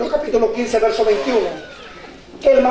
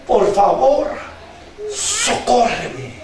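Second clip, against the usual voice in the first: begging; slower than usual. Acted. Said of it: "ella le rogaba". (ruego bajo y pausado)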